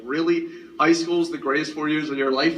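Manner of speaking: incredulous, rising at the end; mock disbelief at the cliché; disbelieving question. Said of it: "I was like".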